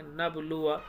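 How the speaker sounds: "नबलुआ" recited softly with a short final आ; unstretched ending. Shown as a demonstration. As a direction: leave the last आ of "नबलुआ" short. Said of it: "यहाँ पर ऐसे पढ़ेंगे". ("नबलुआ" का आख़िरी आ छोटा)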